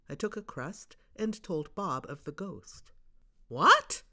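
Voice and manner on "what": loud, high startled cry; shocked, it bursts out; cried out. Acted. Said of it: "cried Bob".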